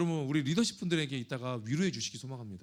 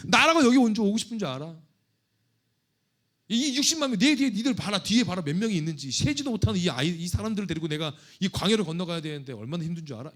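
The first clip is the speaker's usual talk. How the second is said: indignant Moses rant; 3 semitones higher, 8 dB louder than usual. Pretend. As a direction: vent like a leader fed up with complaints. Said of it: "이렇게 했을 거예요".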